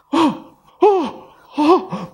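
put-on high, hesitant little-girl "어, 어"; flustered child stammer. (당황한 아이의 더듬거림)

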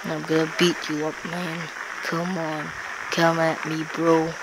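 soft, quick put-on threat; lightly put-on fighter voice; low tough-guy mumble. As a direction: taunt under your breath, mock tough. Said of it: "why am I talking like this".

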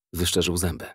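usual speaking voice

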